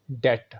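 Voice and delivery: डेट with a silent b, one syllable; डेट, no b sound; correct pronunciation. Shown as a demonstration. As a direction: say डेट as det, slowly. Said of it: "तो सही है".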